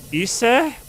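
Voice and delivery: "Ise" said EE-say, high and rising; jokey mispronunciation. Pretend. Trying another wrong ice, "Ise" as EE-say. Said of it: "You mispronounced, right?".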